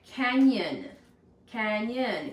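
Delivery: Canyon said loud, broken into CAN-YON; clapping the syllables. Shown as a demonstration. Teacher sounding out Canyon for the class, clearly syllabled. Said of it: "Go ahead and clap it out".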